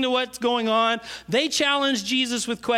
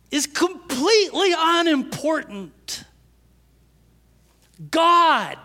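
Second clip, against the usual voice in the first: high, loud, slow sermon peak; preaching at full force; 8 semitones higher, 4 dB louder, slower than usual. Acted. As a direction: drive the truth home from the pulpit. Preaching climax.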